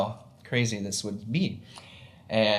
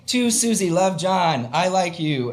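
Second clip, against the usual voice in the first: higher, lightly voiced schoolboy note; mock crush note; 5 semitones higher, slower than usual. A schoolboy's note to Susie, lightly voiced high and bashful. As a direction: read it like a shy kid's note. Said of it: "Or, like".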